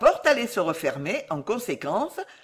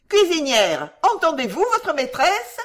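high, raised scolding call; crying out; 9 semitones higher, 5 dB louder than usual. A narrator's reading. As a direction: echo the mistress's call, high and insistent. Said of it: "crièrent les trois sous-maîtresses".

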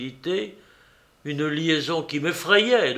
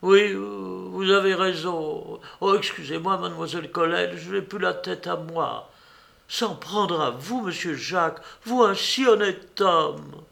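voix aiguë de commère outrée, lente; cuisinière indignée; 6 semitones higher than usual. A narrator's reading. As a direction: plus haut, elle s'indigne pour lui.

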